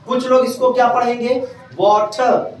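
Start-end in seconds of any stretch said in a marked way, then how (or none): 1.8-2.5 वाटर with a breath-released ठ, "waa-thuh"; aspirated T. Shown as a demonstration. Teacher shows another reading, वाटर with aspirated ठा. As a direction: say वाटर with ठा in place of टर. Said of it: "वो ठा का pronunciation लेते हैं".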